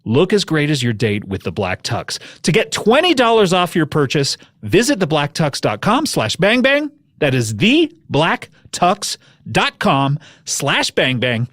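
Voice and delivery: measured sponsor sign-off; practised podcast ad delivery; ad read. Real, not acted. Podcast host reads an ad.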